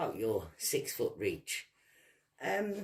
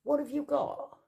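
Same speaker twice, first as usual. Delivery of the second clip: angry challenge; 9 semitones higher, 6 dB louder than usual. Real, not acted. Heated rant at rival.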